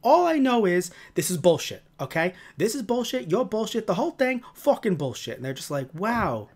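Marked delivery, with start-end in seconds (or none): 0.0-5.3 ranting New York grouch impression; pitched-up, fed-up New York tirade; Grumble. Grumble telling off concerned visitors, New York grouch rant. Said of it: "He has this New York accent". 5.9-6.5 mock awe. Acting awed reaction to crude rant.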